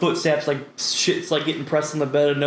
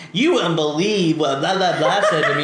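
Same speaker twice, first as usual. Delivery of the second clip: mock outraged aunt. Imitates aunt gossiping to another aunt.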